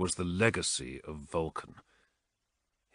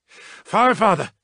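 loud, much higher call; urgent hail; 11 semitones higher, 10 dB louder than usual. A narrator's reading. Krask hailing his chaplain over the vox, urgent shout.

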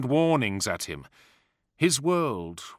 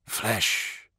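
whispered; 3 dB quieter than usual. Acted. Boy agrees with crows.

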